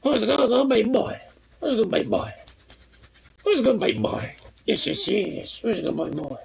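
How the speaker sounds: squeaky high-pitched pet talk. Real, not acted. Owner cooing at her dog in a high baby voice.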